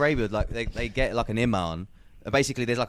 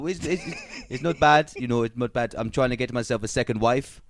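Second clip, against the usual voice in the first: attempted Arab accent, slightly raised. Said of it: "is that a good Arab accent?".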